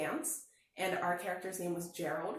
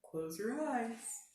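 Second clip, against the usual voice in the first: gentle dad; 3 dB quieter, much slower than usual. A narrator's reading. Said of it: "Dad smiled".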